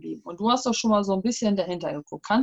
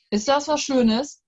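slow, higher, reproachful grandpa; grumpy old man; 5 semitones higher, 4 dB louder, slower than usual. Acted. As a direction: ask it as a hurt old man. Grandpa voice, asked aloud, slow.

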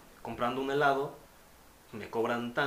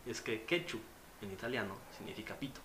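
laughing through it; 2 semitones lower, 8 dB quieter than usual. Real, not acted. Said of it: "laugh heard on quote".

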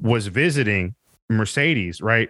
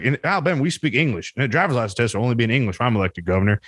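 mock campaign ad; faster than usual. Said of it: "he was like".

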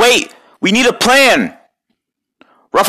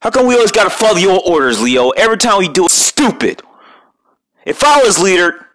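griping turtle; 5 semitones higher than usual. Acted. Complaining about Leo's orders.

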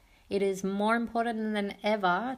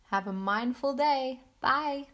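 cheerful goodbye; 4 semitones higher than usual. Real, not acted. Cheerful podcast sign-off.

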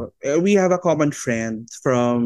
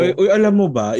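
gossipy tone; 3 semitones higher, 4 dB louder than usual. Retold or imitated. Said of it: "yung may chismis".

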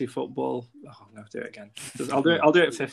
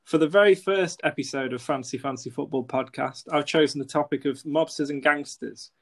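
scripted intro read. Acted.

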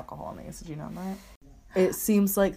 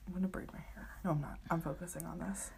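whisper; 12 dB quieter, faster than usual. Real, not acted. Quiet aside while watching.

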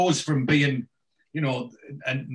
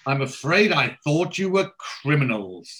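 posh lady visitor; 4 semitones higher, 4 dB louder than usual. Retold or imitated. Retelling the lady's apology.

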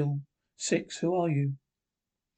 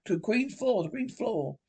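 echoing; 6 semitones higher, 3 dB quieter than usual. Acted. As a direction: echo fading away into the distance.

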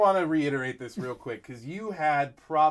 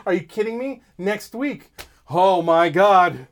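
mock frantic fan; 4 semitones higher, 6 dB louder than usual. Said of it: "Someone was like".

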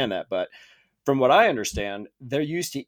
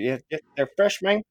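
put-on Cuban street-seller accent; 3 semitones higher than usual. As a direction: vouch for the goods in a mock Cuban accent. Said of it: "I'm gonna continue to".

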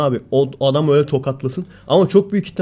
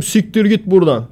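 high, hammed-up macho threat; exaggerated Çomar retelling; 6 semitones higher, 4 dB louder than usual. Mimicking a braggart's story of a confrontation, exaggerated. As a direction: overplay the tough guy sending someone off. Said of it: "Çomar olsa abartarak anlatır".

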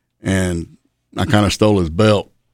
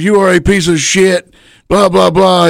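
high, ranting yell trailing into blah blah; mock tirade; 9 semitones higher, 4 dB louder than usual. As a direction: rant at him, pitched high. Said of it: "He goes".

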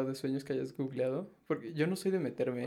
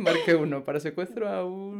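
automated bank menu; 4 semitones higher, 4 dB louder than usual. Acted. Joking to friend about dream sites, automated bank menu voice. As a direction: recite it like a recorded menu option. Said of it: "al banco y te dice".

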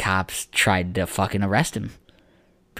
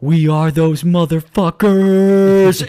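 much higher, louder and dragged-out slow yell; mock crowd-hype yell; 10 semitones higher, 11 dB louder, much slower than usual. Retelling the player grabbing the mic at the parade, a stretched high hype yell. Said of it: "he goes".

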